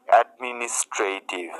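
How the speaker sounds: অ্যাডমিনিস্ট্রেটিভ said whole, every syllable in place; syllables joined. Shown as a demonstration. Teacher giving the finished word, অ্যাডমিনিস্ট্রেটিভ pronounced whole. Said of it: "এটি হয়ে গেল".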